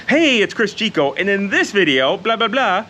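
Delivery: bright energetic YouTuber intro; YouTube voice. Retold or imitated. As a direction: hype it up like a channel opener. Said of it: "talk to you in my YouTube voice".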